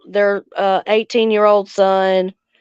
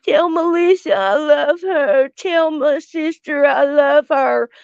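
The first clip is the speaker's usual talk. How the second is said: higher, sing-song sarcastic imitation of the sister; mocking sister; 5 semitones higher than usual. Mocking her sister's message of love, higher and sarcastic. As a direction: parrot her sweet words with contempt.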